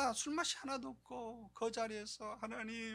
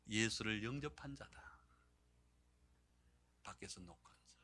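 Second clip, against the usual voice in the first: intense whisper; 10 semitones lower, 7 dB quieter than usual. Real, not acted. Sermon climax emphatic.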